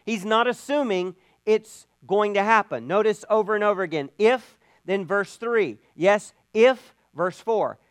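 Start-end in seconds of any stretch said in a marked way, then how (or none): 4.2-4.6 "If," lifted and louder; stress on if. Shown as a demonstration. Preacher pointing out each conditional to the congregation, stressed. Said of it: "So there's a lot of ifs". 6.0-6.9 "if," punched, louder; stress on if. Shown as a demonstration. Preacher listing the conditionals in the verses, stressed. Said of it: "So there's a lot of ifs".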